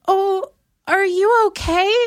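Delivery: high, slow, sugary concern; mock stranger asking if she's okay; mock concerned girl.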